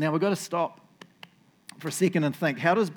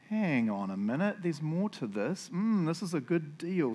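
scheming realization; 5 dB quieter, slower than usual. Acted. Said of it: "so that the guy doesn't think".

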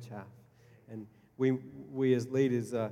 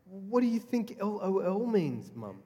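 daughter asking; 8 semitones higher than usual. Retold or imitated. Daughter questions mum.

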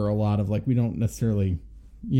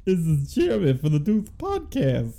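put-on sultry radio voice, higher; 4 semitones higher, 3 dB louder than usual. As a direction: play a smooth late-night host. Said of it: "sultry voice you're hearing".

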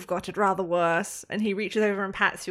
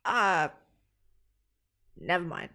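lightly choked-off reply; punched in the throat. Acted. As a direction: cut yourself short as if winded. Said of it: "sounds like he's been punched in the throat".

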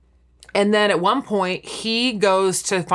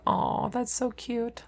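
soft, slow, higher-pitched aww; softly cooing; 4 semitones higher, 9 dB quieter, slower than usual. Retold or imitated. Recalling her reaction to a sweet episode, softly cooing. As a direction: coo it slowly and softly.

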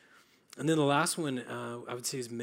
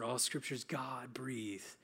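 "All Scripture is" run through, then "God" drawn out; stress on God; 5 dB quieter than usual. Shown as a demonstration. Preacher emphasizing each word in turn, stress on "God". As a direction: hold back for the weight on "God" in "God-breathed". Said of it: "Then you go to the next word".

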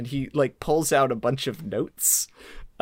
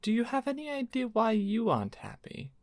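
Lady Dave's voice; 4 semitones higher, 4 dB quieter than usual. Acted. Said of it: "supposed to still be doing Lady Dave's voice".

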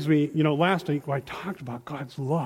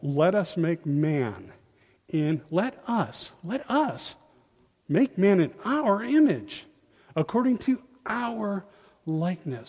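slow reading of God's words; 3 semitones higher, slower than usual. Acted. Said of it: "then God said".

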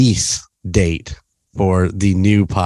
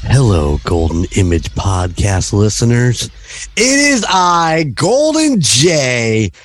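showy host intro. Real, not acted. Host greets podcast listeners and introduces himself, showy announcer. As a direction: announce your own name grandly, stretching it out.

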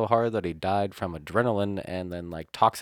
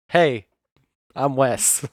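loud, higher-pitched mock self-introduction; impression of Wes; 5 semitones higher, 8 dB louder, much slower than usual. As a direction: exaggerate a friend's voice, loud and raised. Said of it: "Doing impressions of yourself?".

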